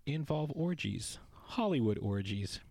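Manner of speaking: unvoiced conspiratorial whisper; whispered tease. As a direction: whisper it like juicy gossip. Teasing aside.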